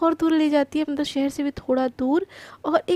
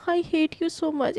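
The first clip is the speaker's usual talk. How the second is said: mock sulk; much slower than usual. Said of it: "गुस्सा होकर ना नाटक".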